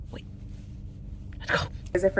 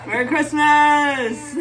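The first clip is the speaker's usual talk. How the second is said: laughing greeting; 5 semitones higher, 4 dB louder, slower than usual. Real, not acted.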